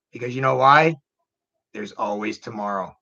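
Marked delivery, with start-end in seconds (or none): 1.7-2.9 gentle reassurance. Real, not acted. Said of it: "the one thing that I always say".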